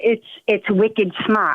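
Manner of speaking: slow, unguarded Boston accent, "smart" said as "smaht"; own Boston accent. Real, not acted. Boston caller denying her accent, natural Boston accent. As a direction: slip into the home Boston accent without meaning to. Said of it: "Oh, I just did it".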